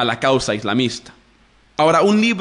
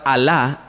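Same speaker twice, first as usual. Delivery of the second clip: Alá with the accent on the second A; stress on final A. Shown as a demonstration. Teacher shows listeners the word Alá, final A stressed. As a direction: lean on the last syllable of Alá. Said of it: "con acento en la segunda A".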